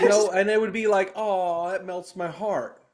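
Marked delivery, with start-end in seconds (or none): 1.2-2.8 sweet Southern drawl. Retold or imitated. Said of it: "beautiful Southern drawl".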